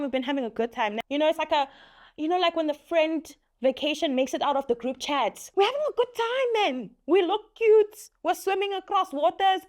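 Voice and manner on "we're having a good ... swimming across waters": overdone self-satisfied boast; sarcastic brag. Acted. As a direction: drag it out like a smug joke. Sarcastic boast about beach trip.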